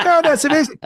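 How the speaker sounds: high, loud mock-Scottish delight; hammed-up amazed Scottish girlfriend; imitated Scottish accent. Girlfriend believes the bluff, high loud mock-Scottish delight. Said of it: "And she was like".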